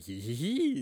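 imitated hee-hee giggle; awkward Joker laughter. Describing the film's laugh, imitated awkward giggle. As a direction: mimic an awkward, forced cackle. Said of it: "like, Joker laughter".

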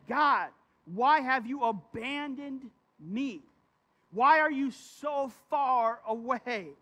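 slow, anguished pleading to God; drawn-out desperate cry of abandonment; distressed plea. Retold or imitated. Preacher voicing David pleading with God in distress. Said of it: "You can hear his emotion and his distress".

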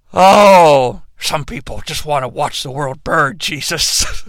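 mock-solemn aside; hushed butler line. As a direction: murmur it like a grave old servant. Alfred-style quote to Jesus.

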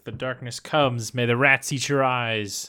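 lightly voiced madman, slow; rambling madman. Co-host imitating the asylum father, slow mock-ominous chanting. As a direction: intone it slowly like a raving prophecy. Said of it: "And he's all like".

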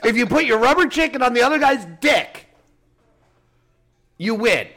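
giggling through the words; amused, laughing explanation; laughing while explaining. Real, not acted. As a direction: laugh it out in disbelief.

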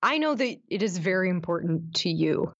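dry, deliberate sarcasm; measured words with a sarcastic edge. Real, not acted. Co-host needling the host about wanting an award, sarcastic. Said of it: "a lot of sarcasm in there".

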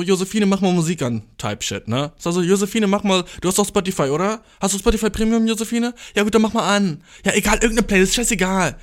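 high mock request to a friend; mock partygoer. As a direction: imitate an eager guest calling for music. Imitates partygoer asking for music.

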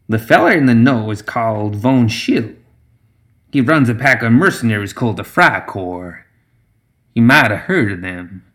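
lightly voiced backwoods matriarch; brief him with swooping emphasis; a hint of a lilting old schemer; swamp witch Zoraida.

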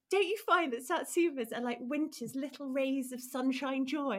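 slow, dreamy mock-wistful line; mock poetic friend. Imitating Charlie's satsuma musing, slow and dreamy. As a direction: savour it like a little poem. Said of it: "He goes".

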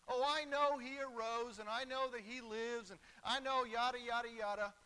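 loud, rattled-off mock know-it-all; dismissive. Preacher mimics people taking the resurrection for granted, dismissive. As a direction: brush it off as old news.

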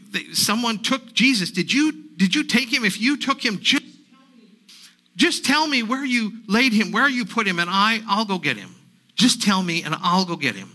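frantic grief-stricken plea; desperate pleading. Acted. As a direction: beg him to give the body back. Grieving Mary begs the gardener.

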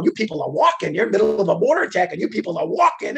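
loud, high exasperated scolding; excited scolding. Retold or imitated. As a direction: chew them out after the near miss. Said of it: "I'm a little excited now".

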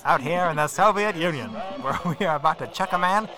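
put-on propaganda announcer in a Russian accent. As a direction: boast like a Soviet broadcaster in Russian accent. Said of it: "But they would do it in a Russian accent".

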